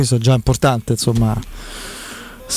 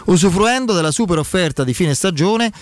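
infomercial. Acted. Host reads sponsor ad live.

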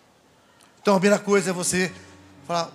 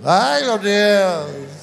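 very slow, drawn-out mock wail; a hammed-up sob, not real tears; imitating sobbing; 5 dB louder, much slower than usual. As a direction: stretch the words into a crying moan. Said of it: "E ele chorava assim".

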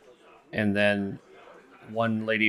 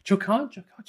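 startled crowd chatter; 11 semitones higher than usual. Acted. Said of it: "there's murmuring across the crowd".

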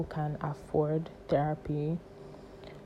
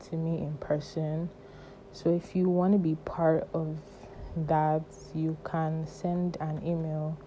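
breathless after a panic attack; talking short of breath. Real, not acted. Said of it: "I'm sorry I'm talking like this. I'm out of breath".

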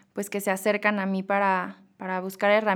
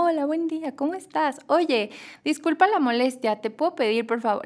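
higher, sweet over-polite ordering; sugary polite Mexican request; 4 semitones higher than usual. Retold or imitated. Ordering a Coke in Madrid, higher and over-polite. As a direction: pile on the niceties like a shy customer in Madrid. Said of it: "Y yo como".

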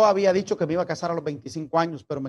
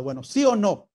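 impatient demand; 5 semitones higher, 3 dB louder than usual. Retold or imitated. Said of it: "le dije yo ya enojado".

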